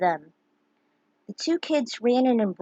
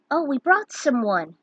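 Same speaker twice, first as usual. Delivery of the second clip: put-on young girl voice; 5 semitones higher, 3 dB louder than usual. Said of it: "the girl said".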